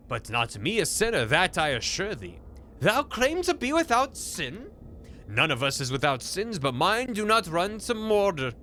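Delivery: lightly voiced woodcutter and trees in olde speech; mock-solemn medieval drama, half-hammed; archaic fairy-tale figures. Woodcutter interrogating a talking tree about murder, mock-solemn.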